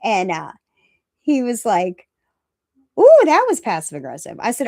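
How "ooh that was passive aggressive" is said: louder, higher teasing accusation; mildly scandalized imitation, pitched up; mock call-out. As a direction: imitate someone calling out a dig. Retelling someone calling out her sarcasm.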